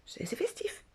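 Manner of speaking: breathy aside, almost to herself; whispered irony, high and soft; ironic whisper. Acted. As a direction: hush it like a secret joke.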